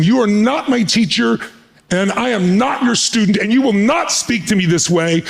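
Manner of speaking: high, emphatic mock rebuke; retold indignation. Gorbachev rebuking Reagan for lecturing him, retold indignation. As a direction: push each phrase high, as an acted protest. Retold quarrel between two leaders.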